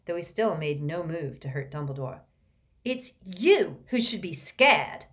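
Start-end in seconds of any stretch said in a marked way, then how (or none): 2.8-5.0 loud, higher, slow menace; a boy trying to sound frightening; cornered boy's threat; threatening. A narrator's reading. Malfoy threatening Dumbledore.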